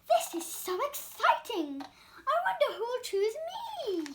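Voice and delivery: bubbling over with a little laugh; excited. Acted. Donut Arnie giggles hoping to be chosen.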